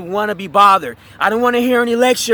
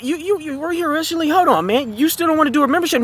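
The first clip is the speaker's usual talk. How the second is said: pushy; 5 semitones higher, faster than usual. Retold or imitated. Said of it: "Now his tone is a lot more, um, um, pushy".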